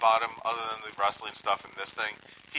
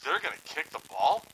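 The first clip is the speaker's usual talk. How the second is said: imitating a baffled commentator, raised pitch; mock disbelief, question pitched higher; incredulous; 5 semitones higher than usual. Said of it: "he was just incredulous".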